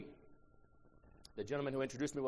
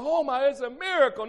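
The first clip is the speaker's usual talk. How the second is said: mock amazement; 13 semitones higher, 12 dB louder than usual. Mocking people calling it miracle.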